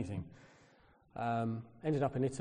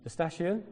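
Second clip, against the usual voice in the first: raised, questioning lift on "station"; tentative foreign-word question; 6 semitones higher than usual. Retold or imitated. Asking Italians for the railway station, tentative question. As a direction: try "La station?" as a higher-pitched question.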